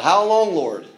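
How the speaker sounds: retold cry, lightly acted; imitated crying out. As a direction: voice their cry with a drawn-out swell, then drop. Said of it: "those under the altar crying out".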